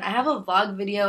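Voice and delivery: normal talking voice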